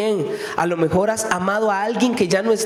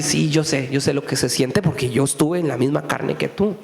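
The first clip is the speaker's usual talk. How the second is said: lower, gentle Jesus voice; preacher voicing Jesus comforting someone scared; tender reassurance; 6 semitones lower than usual.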